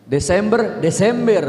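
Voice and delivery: playful imitation of the Medan E; Medan accent. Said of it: "Orang Medan itu identik dengan E".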